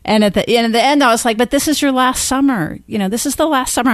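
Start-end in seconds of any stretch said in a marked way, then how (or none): 1.4-3.9 higher-pitched mock plea, almost in tears; retold motherly plea, a touch tearful; retold near-tearful plea. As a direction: plead it lightly, as if close to tears. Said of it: "I'm almost in tears".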